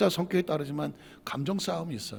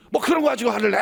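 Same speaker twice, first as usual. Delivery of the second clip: higher, irritated acted retort; dismissive scolding; 5 semitones higher, faster than usual. Spouse pouring fuel on partner's anger, scolding. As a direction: belittle it with a sharp rise in pitch. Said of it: "그러면 불을 지르는 거예요".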